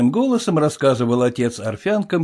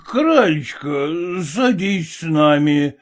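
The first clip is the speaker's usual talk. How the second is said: flirty whisper; 5 semitones higher, slower than usual. A narrator's reading. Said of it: "шепнул он ей".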